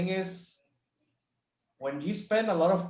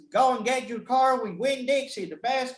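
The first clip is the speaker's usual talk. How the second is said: high-pitched, hard-sell car salesman; imitating an eager car seller, pitched up; 8 semitones higher, 3 dB louder than usual. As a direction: belt out a cheesy dealership slogan. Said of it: "typical, uh, you know, car sellers".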